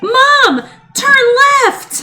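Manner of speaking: high, loud mock emergency yell; imitating a panicked daughter yelling from the backseat; imitating a child yelling. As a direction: shout it like a kid who thinks it's an emergency. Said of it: "kept yelling it like it was an emergency".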